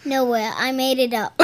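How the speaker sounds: put-on understated invented accent; Accent Girl's made-up accent. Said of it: "where's that accent from?".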